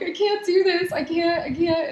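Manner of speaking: high, loud mock-crying voice; retold tearful protest. Student reenacting breakdown to coworker, high mock-tearful plea. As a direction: imitate yourself wailing in a meltdown. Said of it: "just started crying in his arms".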